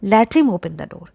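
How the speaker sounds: slow model sentence. Shown as a demonstration. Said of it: "इसको English में कैसे कहेंगे?".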